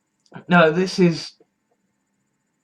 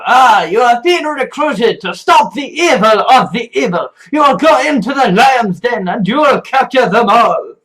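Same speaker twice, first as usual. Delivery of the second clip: grand shouted proclamation; 4 semitones higher, 4 dB louder than usual. Retold or imitated. Mock recruiting speech, grand call.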